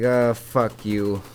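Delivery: slow insults that build to a loud yell; retold telling-off of the insurance man, hammed up; mock cussing out. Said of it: "And I was like".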